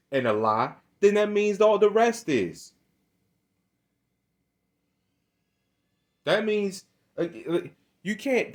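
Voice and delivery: a preacher scolding listeners who pick and choose scripture; street preaching. Real, not acted. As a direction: preach it at them with mounting fire. Preaching to Bible readers.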